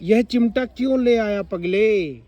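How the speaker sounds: sudden surprise. Shown as a demonstration. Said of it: "एकदम अचानक और ये शब्द बोला".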